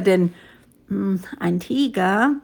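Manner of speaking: ordinary delivery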